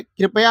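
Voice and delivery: three unhurried syllables in कृपया; correct pronunciation. Shown as a demonstration. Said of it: "क्या होता है?".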